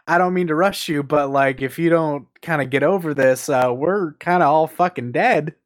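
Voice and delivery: lightly acted casual nudge, slowing at the end; nonchalant. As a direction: break bad news as if it's no big deal. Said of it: "it's just so nonchalant".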